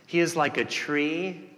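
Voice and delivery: scripture reading. Acted. Pastor reads Psalm one to the congregation, slow and lifted. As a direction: draw out each word of the verse.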